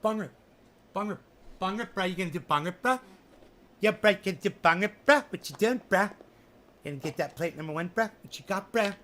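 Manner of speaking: lightly voiced lazy stoner bro; stoner bro Johnny. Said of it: "Johnny's like".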